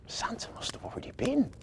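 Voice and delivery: high, soft, breathy wonder; hushed child voice. A narrator's reading. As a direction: keep it down as an awed child. Children sneak in past parents.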